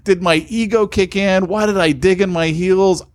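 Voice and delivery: exasperated self-reproach, pitch climbing; mildly frantic, high-pitched questioning of yourself; retold freaking out. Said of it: "like, freaking out, going".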